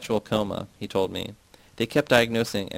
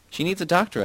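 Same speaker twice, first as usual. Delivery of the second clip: urgent cry, pitched much higher; shout; 9 semitones higher than usual. A narrator's reading. Narrator shouting at Yasna for a doctor. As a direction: yell that the sick woman needs help. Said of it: "I shout".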